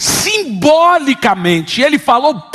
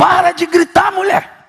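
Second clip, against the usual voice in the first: angry scolding tone, pitched higher; 4 semitones higher than usual. Retelling own words to a screaming mother: retelling own angry words. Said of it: "E eu fiquei bravo com a mulher".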